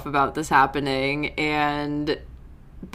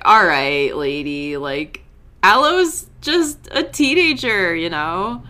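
exasperated; 4 dB louder than usual. Retold or imitated. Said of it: "starting to get pissed off".

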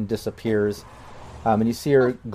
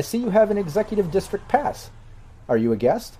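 AI voice; 8 semitones higher than usual. Acted. AI receptionist speaking.

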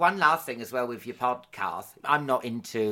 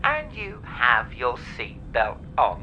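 flight attendant. Pretend. Pilot announcement on Alan Air.

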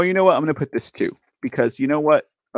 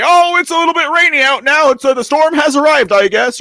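a hint of a shrugging president, higher and louder; mock president; 8 semitones higher, 5 dB louder than usual. Mocking what the president might say, lightly voiced president. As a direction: toss it off like a leader downplaying the storm. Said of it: "your president to go and say".

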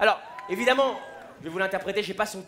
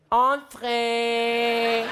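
cheerful dad; 3 semitones higher, 4 dB louder than usual. Retold or imitated. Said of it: "Mon père, il a dit".

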